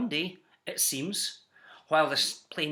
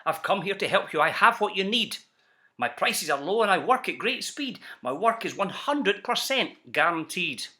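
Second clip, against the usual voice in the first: a light touch of a fast-talking huckster; salesman pitch. Acted. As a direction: sell it like a slick peddler. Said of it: "he announced in a voice clear and keen".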